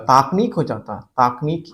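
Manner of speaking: ताकनीक with a long aa in ता; wrong pronunciation. Shown as a demonstration. Teacher showing what a short-i suffix would produce, ताकनीक with long first vowel. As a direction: stretch the first syllable of ताकनीक: taak-neek. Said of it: "पहला अक्षर बड़ा होता".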